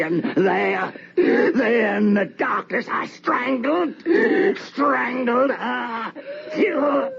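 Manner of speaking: high wailing sobs, voice cracking at the end; anguished sobbing. Acted. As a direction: sob it out in horror. The strangling told in anguish.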